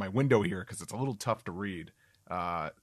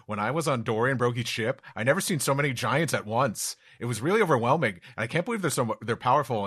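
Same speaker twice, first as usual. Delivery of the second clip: Luffy prattling on; 3 semitones higher, 4 dB louder than usual. Acted. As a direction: prattle excitedly without letting anyone in. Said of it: "Luffy is prattling on".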